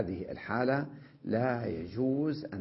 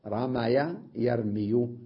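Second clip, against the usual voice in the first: slow example forms; much slower than usual. Shown as a demonstration.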